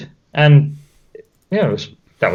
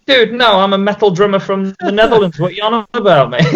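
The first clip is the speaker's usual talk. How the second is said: indignant retort; 6 semitones higher than usual. Retold or imitated. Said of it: "I was like".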